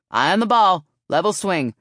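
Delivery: loud cheer with batting tips; shouted coaching. A narrator's reading. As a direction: call instructions across the field. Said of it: "she shouted".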